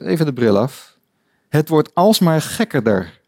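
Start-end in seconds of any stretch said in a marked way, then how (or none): 1.5-3.2 lightly voiced Alice, slow and a bit higher, wondering aloud; amazed Alice. Lecturer reading Alice's amazed cry to the audience, lightly voiced. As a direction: read it as a puzzled little girl. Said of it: "riep Alice".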